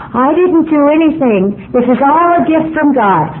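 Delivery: high, slow, sugary imitation of a humble member; mocking pious voice. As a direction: mimic the falsely modest believer. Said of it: "people in A A meetings who say".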